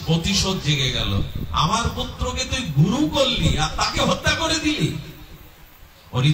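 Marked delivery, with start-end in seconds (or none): 1.5-5.0 raised, much higher furious accusation; a sage's bitter cry for his murdered son; vengeful rage. Acted. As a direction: hurl the accusation like a wronged father. Vengeful sage curses Indra.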